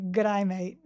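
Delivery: Australian-sounding G'day; Aussie accent. Shown as a demonstration. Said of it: "without sounding Aussie".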